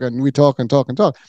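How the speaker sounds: normal talking voice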